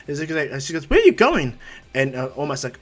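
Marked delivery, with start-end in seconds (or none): 0.9-1.6 loud, high-pitched demanding question; mother calling out. Acted. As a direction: call after your son, voice leaping up. Mother calls after departing son.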